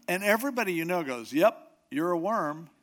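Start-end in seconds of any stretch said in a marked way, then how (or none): 1.3-2.7 loud, blunt "Yep, you're a worm"; mock taunt. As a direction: toss it back like a cruel friend. Mock taunting agreement, louder.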